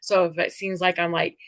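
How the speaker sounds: words thick from a bitten tongue; swollen tongue. Real, not acted. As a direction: talk round a sore swollen tongue. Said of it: "my tongue is swollen".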